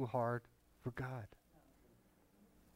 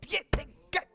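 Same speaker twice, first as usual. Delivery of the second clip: much higher, squeaky excited voice; imitating the wife; faster than usual. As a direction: mimic the wife's eager report. Wife Sharon voiced, retold.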